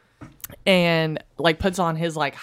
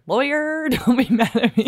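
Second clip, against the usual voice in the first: laughing apology; 9 semitones higher, 4 dB louder than usual. Real, not acted. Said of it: "Fuck, sorry".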